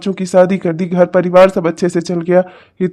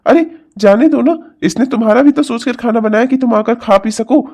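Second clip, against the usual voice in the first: higher-pitched, exasperated reasoning; remonstrating; 4 semitones higher than usual. Acted. Father-in-law defending the girl to his angry wife, remonstrating. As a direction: protest on her behalf, mildly exasperated.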